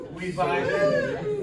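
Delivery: sudden very high, slow squeal; hype squeal. Real, not acted. Comic warming up the crowd with a high, slow squeal. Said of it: "We excited for this?".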